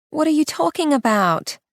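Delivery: sharp, high disbelieving question; Renee, thrown off guard; incredulous. Acted. Renee's startled reply.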